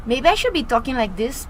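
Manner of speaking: lightly hammed-up Latina accent; put-on Latina accent. Singer jokes she must sound Latina, playful Latina accent. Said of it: "I don't sound like I'm Latina".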